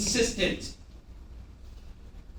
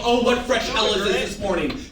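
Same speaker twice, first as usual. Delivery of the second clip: mock exasperation. Shown as a demonstration. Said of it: "put your hand in your head and go".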